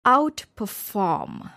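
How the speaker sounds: slow outperFORM; stress on last part. Shown as a demonstration. Teacher showing a compound verb, slow "outperform", last part stressed. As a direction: stretch "outperform", weight on FORM. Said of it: "the stress is also on the last part".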